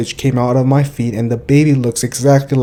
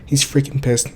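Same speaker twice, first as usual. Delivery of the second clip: fake shock. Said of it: "put on your freaking Disney Channel audition character".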